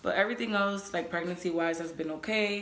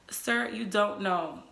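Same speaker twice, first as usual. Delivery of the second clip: slow, lightly exasperated pushback; mock correction; slower than usual. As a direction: spell it out slowly to an overconfident partner.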